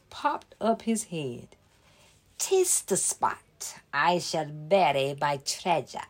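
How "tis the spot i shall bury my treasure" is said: hush, a leprechaun hiding gold; secretive whisper. Acted. Leprechaun whispering to himself about burying treasure. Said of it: "he said".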